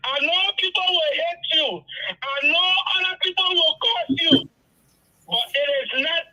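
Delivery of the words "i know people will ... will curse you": getting emotional. Real, not acted. Caller apologising to Seku for her tears, emotional. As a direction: voice rising with real emotion. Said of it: "I'm getting emotional".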